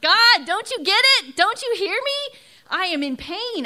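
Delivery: high, loud pleading cry; anguished cry to God. Retold or imitated. Mother reliving her plea to God, crying out high and loud. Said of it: "I wanted to scream out".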